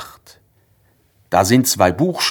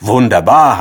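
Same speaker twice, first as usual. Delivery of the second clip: loud joyful exclamation; delighted cry; 2 semitones higher, 7 dB louder than usual. Acted. Narrator happily calls out as a new word forms, loud. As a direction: cheer it out. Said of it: "habe ich gerufen".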